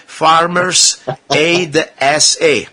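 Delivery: slow, deliberately over-articulated fake British; mock British accent. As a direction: put on a sarcastic British accent, drawn out. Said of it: "one more time with my British accent".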